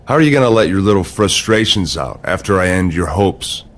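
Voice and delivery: low, slow gloating threat; menacing taunt. Acted. Rival mocking Cena's hopes before WrestleMania, menacing taunt.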